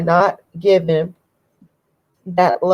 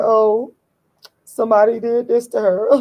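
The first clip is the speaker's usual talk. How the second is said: higher, put-on pitying voice; mock sympathy; 4 semitones higher than usual. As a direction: feign pity for a poor victim. Mocks excuses made for others.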